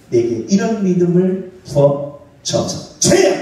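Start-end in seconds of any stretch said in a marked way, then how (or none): 3.0-3.3 loud, high call to the Lord; preacher crying out to lead the church in prayer. Real, not acted. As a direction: shout it to rouse the congregation. Leading congregation in prayer cry.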